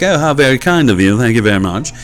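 a light, mock-posh British thank-you; posh British accent. Santa thanking the host for cookies, in a light mock British accent. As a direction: play a classy English Santa, lightly. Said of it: "he'll talk like that".

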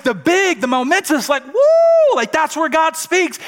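loud, high, excited preaching building to a whoop; hyped-up grandeur. Acted. Preacher mimics expecting God in the big, momentous things, hyped-up and loud. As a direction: build to a huge, high-pitched shout of awe.

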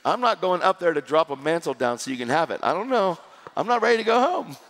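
playful, high-pitched mock refusal; silly protest. Preacher joking with crowd about dropping a mantle, silly protest. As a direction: protest in jest, pitch climbing at the end. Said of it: "just kinda being silly a little".

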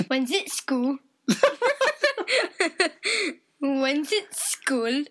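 attempted Dorset accent; amateur Dorset impression. Shown as a demonstration. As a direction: have a shaky go at Dorset. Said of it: "can you do a Dorset accent".

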